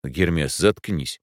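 usual speaking voice

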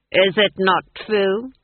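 "Is it not true?" asked slowly with a rising end; the Duke demanding Granny admit it, pressing; pressing question. Acted. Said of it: "I said".

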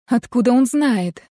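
usual speaking voice

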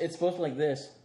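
muffled while drinking; muffled, mouth at the glass. Real, not acted. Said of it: "you sound like a muffled, like, cry".

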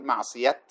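"معصية" stopped on a clear final t; pause on t. Shown as a demonstration. Teacher shows how reciters stop with the taa, final t. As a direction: end "معصية" with a crisp t sound, not h. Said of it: "يقفون عليها بالتاء".

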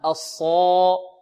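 heavy, drawn-out Saad in الصالحات with a thickened alif after it; تفخيم الصاد. Shown as a demonstration. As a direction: say الصالحات slowly, with a dark full "Saa". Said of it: "فتفخم هنا". (تفخيم الصاد والألف بعدها في الصالحات)

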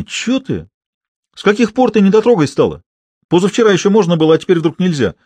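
high, loud, rushed outrage; bewildered and offended, pushing back; indignant protest. Acted. Drunk lads confront refusing girlfriend, high indignant protest.

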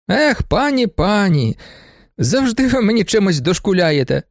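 high exasperated protest; mildly hammed-up indignation; whining reproach at the widow; indignant. A narrator's reading. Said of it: "обурився Охоцький".

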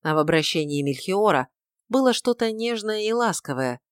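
usual speaking voice

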